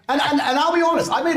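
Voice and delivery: chuckling through the words; laughing. Real, not acted. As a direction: laugh as you start. Laughing while speaking.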